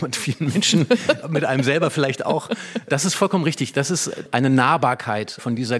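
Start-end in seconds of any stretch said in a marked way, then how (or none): 1.1-2.5 laughing through the words; amused laugh spilling into the line. Real, not acted. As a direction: chuckle while finishing the thought. Laughing after self-deprecating joke.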